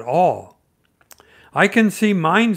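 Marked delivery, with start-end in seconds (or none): 1.5-2.6 high, loud eager squeal; a small child spotting his stick; excited Roo. A narrator's reading. Small Roo shouting to friends at the bridge, excited. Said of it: "said Roo".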